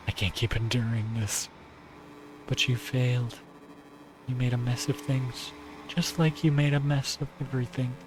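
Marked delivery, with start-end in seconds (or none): 2.5-7.9 lightly voiced cooing yandere girl; Nagi voice. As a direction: coax him, sweetly cruel.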